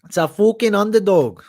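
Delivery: loud, high underdog cheer; hyped shout. Real, not acted. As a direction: shout it like a sports hype man. Hyping his underdog story.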